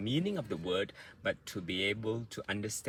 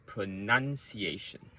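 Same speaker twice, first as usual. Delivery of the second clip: pronunciation with NUN stressed, ciation quicker; word rhythm demo. Shown as a demonstration. Coach demonstrating word rhythm, pronunciation with NUN stressed. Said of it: "the rhythm of the word is".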